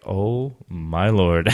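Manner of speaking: slow, drawn-out disbelief; stunned. Retold or imitated. Newcomer stunned by the accent, slow disbelief. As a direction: let it sink in slowly. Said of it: "And I was like".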